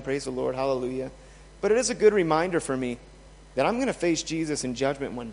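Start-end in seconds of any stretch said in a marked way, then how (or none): 0.0-1.1 soft, heartfelt hallelujah; a hushed personal thank you to God; quiet sincere praise. Real, not acted. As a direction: murmur it with real gratitude. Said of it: "I know I'm saved".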